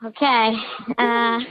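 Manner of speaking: digitally disguised voice; pitch-shifted anonymous caller; voice changer. Real, not acted. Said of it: "Sounds so funny with the voice changer".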